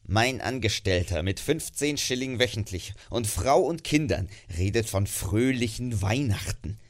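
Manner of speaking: put-on low, sour old man muttering; grumbling miser. Scrooge grumbles about his cheerful clerk, low and sour. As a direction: grumble it to yourself.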